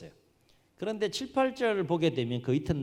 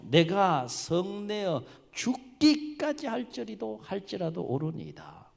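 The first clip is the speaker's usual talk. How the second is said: raised, drawn-out protest, easing off; acted stubborn complaint; 7 semitones higher, slower than usual. Jonah pleads his case to God, stubborn drawn-out complaint. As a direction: insist slowly, then settle at the end. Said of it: "이렇게 하소연해요".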